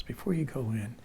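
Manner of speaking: very soft, whispery aside; retold whisper. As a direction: imitate a friend's discreet whisper. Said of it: "whispering a, a little bit now".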